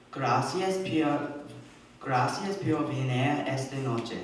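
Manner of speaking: careful, slow Spanish, each word spaced out. Shown as a demonstration. Child thanking guests in Spanish, slow and careful. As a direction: read "Gracias por venir esta noche" slowly in Spanish. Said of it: "in Spanish".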